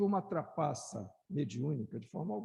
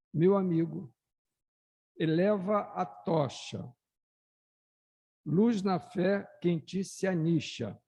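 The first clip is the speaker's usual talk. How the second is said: declaimed poem; 6 dB louder than usual. Acted. Speaker reads the spirit poem aloud to the audience, declaiming loudly. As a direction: proclaim each verse to the hall.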